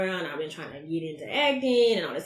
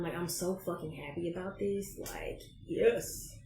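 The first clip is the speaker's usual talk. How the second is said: excited whisper; 7 dB quieter than usual. Real, not acted. Whispered delight at good time.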